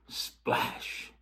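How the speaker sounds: softly whispered splash. Acted. The narrator whispers the first splash before the big one. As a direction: breathe the word as a hush before the crash. Stone drops into boiling pot.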